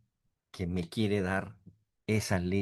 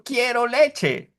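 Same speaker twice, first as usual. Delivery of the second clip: put-on high, slow baby crying for milk; 14 semitones higher, 9 dB louder, much slower than usual. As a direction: whine it like a hungry baby. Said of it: "está diciendo". (voz de bebé que llora pidiendo leche)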